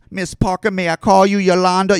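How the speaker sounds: mock proper and dainty; prim white voice. Mocking how white people would politely say Yolanda. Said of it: "How can I white it up".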